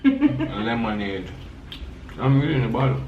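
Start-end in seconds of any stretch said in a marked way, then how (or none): 0.0-1.3 laughing lemonade. Acted.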